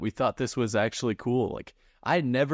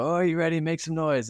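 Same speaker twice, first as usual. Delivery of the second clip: higher, mock-eager emcee crowd call; cheesy concert opener hype; 7 semitones higher than usual. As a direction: imitate a stage host begging for cheers. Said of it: "They go".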